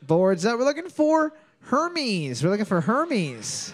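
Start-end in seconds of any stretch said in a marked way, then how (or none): 0.6-2.4 high announcer call. Acted. Host reveals answer.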